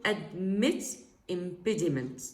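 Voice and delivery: "admit" and "impediment" set apart by a pause; consonance demonstration. Shown as a demonstration. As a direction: land on the shared "mi" and "pe" beats in "admit impediment". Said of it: "are considered as al-, consonances".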